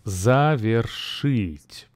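завершить said slowly, each sound clear; slow clear Russian word. Shown as a demonstration. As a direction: spell out завершить slowly for learners. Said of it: "We have another verb today".

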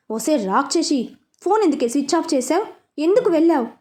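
a mother scolding her runaway daughter; yelling. A narrator's reading. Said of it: "అంటూ అరుస్తుంటే".

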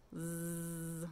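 "Z" as a soft, held zzz; long buzz. Shown as a demonstration. Teacher confirming a long one, "Z" as drawn-out buzz. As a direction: buzz "Z" steadily and quietly. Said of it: "That would be a long one".

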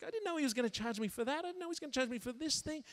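high-pitched fretful protest; mock dismay. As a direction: protest in a high voice, rushing toward the end. Reenacting dismay at the charges.

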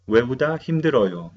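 wrong grammar demo. Shown as a demonstration. Teacher shows students the incorrect sentence, as a plain demo. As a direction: model the wrong form 외우다 힘들어요 as a learner's mistake. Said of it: "No, no se dice así".

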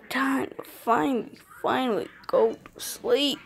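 whispered, winding down for bed; sleepy whisper. Acted. Tired fighter settling down to sleep, sleepy whisper. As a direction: whisper like you're drifting off.

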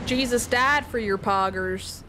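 slow Southern preacher; Southern accent. Acted. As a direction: deliver it as a Southern sermon line. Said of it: "the Southern accent Pogger".

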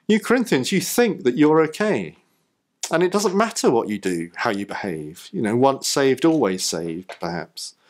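lightly mocking the Corinthians' self-assurance; mock complacency. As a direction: needle the smug listeners.

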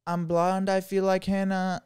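lightly put-on pop-star voice; hint of a singer impression. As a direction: pitch it up a little, playing the blonde singer. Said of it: "What would the singer say".

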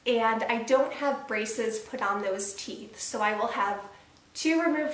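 muffled through fingers; hand over mouth. Real, not acted. Seen 0: Hand covers mouth at 0.1–0.4 and again 2.0; otherwise gesturing.

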